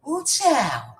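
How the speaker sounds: breathless sigh, winded; out of breath. Real, not acted. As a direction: puff it out, short of air. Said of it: "I'm out of breath".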